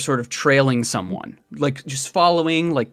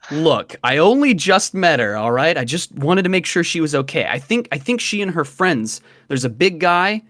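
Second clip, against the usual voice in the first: mildly defensive, lightly acted; a touch of embarrassed insistence; flustered; 3 semitones higher than usual. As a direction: protest a little too much, with a stumble. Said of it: "and blushes slightly".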